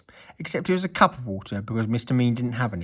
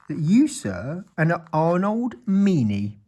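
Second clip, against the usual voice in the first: pompous wizard, raised pitch; 7 semitones higher, 4 dB louder, slower than usual. A narrator's reading. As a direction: play the wizard, savouring every word. Wizard voice continues.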